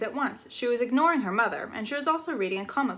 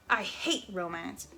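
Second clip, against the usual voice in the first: to herself; 3 semitones lower, 5 dB quieter, slower than usual. Acted. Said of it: "said Flora out loud to herself".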